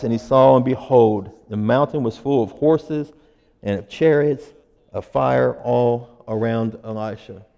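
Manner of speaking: measured, solemn Bible reading; scripture reading. Acted. Pastor reading scripture to church, measured and solemn. Reads scripture passage aloud.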